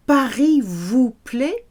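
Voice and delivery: teacher models a slow rising question; asking question. Shown as a demonstration. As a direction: ask it like a friendly host, slow. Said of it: "the French will often phrase it as".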